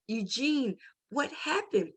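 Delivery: softly imitating a hushed question; retold whisper. Mother to injured son in hospital bed, retold whisper. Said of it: "I whisper to you".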